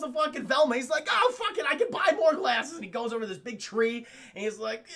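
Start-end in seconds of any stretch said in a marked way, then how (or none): 1.1-2.7 high-pitched giving up; mock frustration. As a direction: dismiss it in a huff. Acting Newman giving up.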